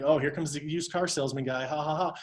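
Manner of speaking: lightly mocking, with a fake laugh. Public making fun of used car salesmen, lightly mocking. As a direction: poke fun, ending on spelled-out ha-has. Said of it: "started making fun of it".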